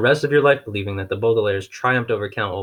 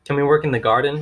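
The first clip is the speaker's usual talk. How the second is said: eager; 5 semitones higher, 4 dB louder than usual. Acted. Eager child asks.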